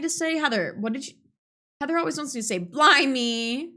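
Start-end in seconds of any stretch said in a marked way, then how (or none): 2.6-3.7 hammed-up British exclamation; British accent. Shown as a demonstration. Saying what Heather always wants, mock British accent. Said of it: "Do your best British accent".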